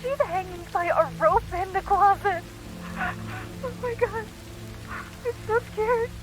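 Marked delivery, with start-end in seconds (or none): 3.0-6.1 soft, slow, frightened; small and scared, dragging the words. Acted. Sister alone in the dark telling her brother, softly frightened.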